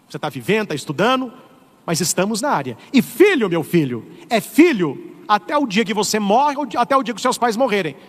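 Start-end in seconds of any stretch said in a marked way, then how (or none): none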